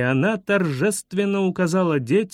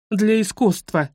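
higher-pitched indignant bark, mildly raised; barked retort; 5 semitones higher than usual. A narrator's reading. Guide answers a cheeky pupil, barked retort. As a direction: bark it back at the children. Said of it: "рявкнула экскурсовод".

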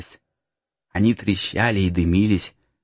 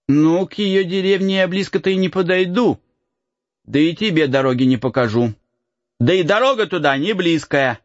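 put-on light higher boyish voice; cheeky peasant boy; 10 semitones higher than usual. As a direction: tease the lost boy. Boy character voice.

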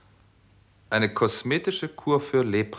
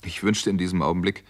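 story narration; 2 semitones lower than usual. A narrator's reading.

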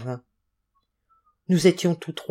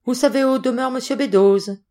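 alarmed question; 7 semitones higher, 3 dB louder than usual. A narrator's reading. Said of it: "s'écria monsieur Trevor".

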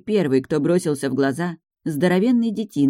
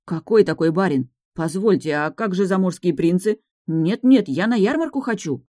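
indignant protest; 2 semitones higher than usual. Acted. Heroine protests the buyer.

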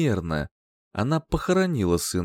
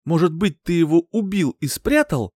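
higher, louder accusation; accusing; 7 semitones higher, 4 dB louder than usual. A narrator's reading. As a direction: demand he confess. Furious accusation.

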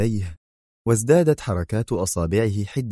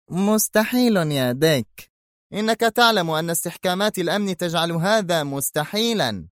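indignant disbelief; 9 semitones higher than usual. Acted. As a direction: reject the idea outright. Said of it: "هتف فينسنت في استنكار".

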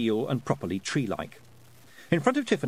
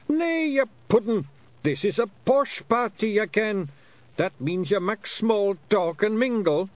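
scolding Scots pixie; 10 semitones higher, 5 dB louder than usual. Acted. Rob scolding Willie about posh parties, high loud Scots.

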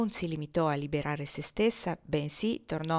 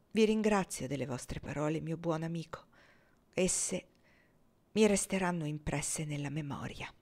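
placid respect. Acted. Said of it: "disse con placido rispetto".

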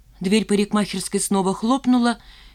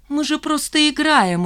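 smiling; 8 semitones higher, 3 dB louder than usual. A narrator's reading. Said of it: "улыбаясь".

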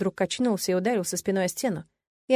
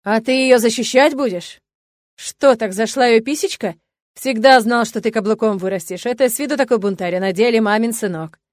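sneering mockery; 2 semitones higher, 7 dB louder than usual. A narrator's reading. Father sneering at son.

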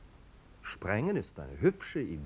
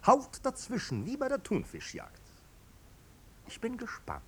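mock eager; 10 semitones higher than usual. Marquis mockingly urges them on.

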